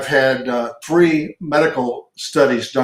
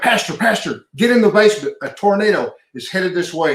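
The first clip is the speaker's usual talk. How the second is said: higher, urgent call to the pastor; urgent warning; 6 semitones higher than usual. Retold or imitated. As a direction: raise the alarm, voice pitched up. Member runs out warning tornado.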